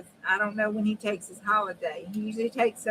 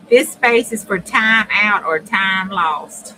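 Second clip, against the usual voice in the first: laughing through words; 10 dB louder, slower than usual. Real, not acted.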